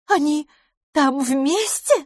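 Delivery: high, drawn-out excited question; delighted disbelief. A narrator's reading. Miss LaFosse asks if the pair are together, excited. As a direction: ask it high, hanging on the answer. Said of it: "на этот раз восторженно".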